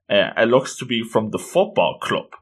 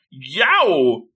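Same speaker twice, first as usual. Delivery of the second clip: retold big yelp. He hears it down in the corner, mock yelp. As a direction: imitate a big distant yow, lightly. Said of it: "he hears a big".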